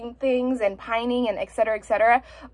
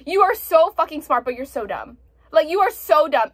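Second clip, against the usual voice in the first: exasperated scolding. Retold or imitated. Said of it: "I was like".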